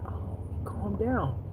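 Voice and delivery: soft, slow whisper to self; whispered aside. Retold or imitated. The waitress whispering to herself about the customer, softly. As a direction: breathe it under your breath. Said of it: "And I was like".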